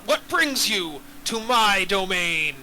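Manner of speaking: slow, low dragon challenge; a hint of a lordly dragon. Dragon NPC line.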